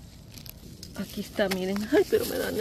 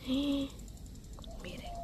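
gasp; 7 semitones higher, 10 dB quieter than usual. Real, not acted. Sudden sight of the babies.

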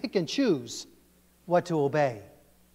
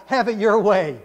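laughing slogan; 4 semitones higher, 7 dB louder than usual. Shown as a demonstration. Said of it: "not the philosophy of God".

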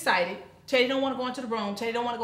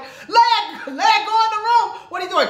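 loud, higher repeated order; urgent order; 11 semitones higher, 10 dB louder than usual. Retold or imitated. Father shouting his daughter back to her room. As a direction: insist hard, voice raised. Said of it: "He's like".

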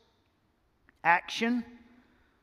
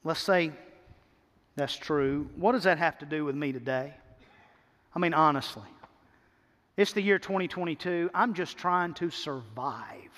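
doubting churchgoer; 5 semitones lower than usual. Acted. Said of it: "You say".

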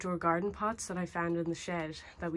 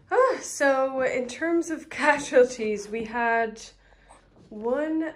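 laughing; 6 semitones higher, 10 dB louder, slower than usual. Real, not acted. Laughing reporting plant casualties.

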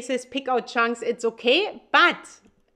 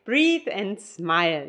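yoga teacher mom; 3 semitones lower, slower than usual. Retold or imitated. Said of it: "my mom always says in her yoga lessons".

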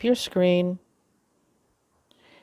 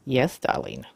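lower-pitched, playful "yes, darling"; playful reply; 4 semitones lower, 4 dB quieter than usual. Acted. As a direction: humour the machine in a lowered voice. Playful reply to the talking device.

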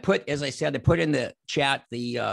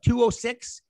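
slow dictation; 5 semitones higher, slower than usual. Shown as a demonstration. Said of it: "write this phone number down".

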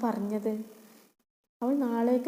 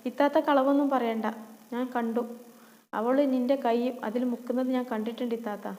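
indignant little brother. Acted. Little brother defends sister.

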